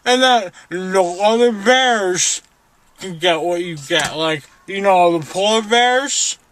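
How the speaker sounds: loud drugged speech. Real, not acted.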